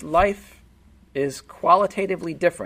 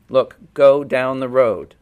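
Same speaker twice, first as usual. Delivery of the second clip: forceful urging; 7 dB louder, slower than usual. Real, not acted. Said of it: "preacher urges congregation".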